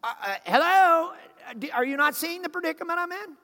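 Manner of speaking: exasperated, quick mock disbelief; sarcastic to God. Preacher sarcastically asking God if he sees the mess. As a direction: roll your eyes at God, talking fast. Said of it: "talk to God like that".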